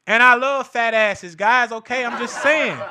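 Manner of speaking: laughing through the words; half-laughing aside. Real, not acted. Joking aside about liking asses.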